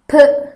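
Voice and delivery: P as a brief sound, not "pe"; letter sound demo. Shown as a demonstration. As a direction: say P as a short "pı". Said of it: "diye okunur". (P'yi kısa "pı" sesiyle söyle)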